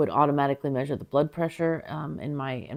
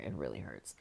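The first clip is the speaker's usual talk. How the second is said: whispering in pain; 12 semitones lower, 15 dB quieter than usual. Real, not acted. Pain after surgery, whispered.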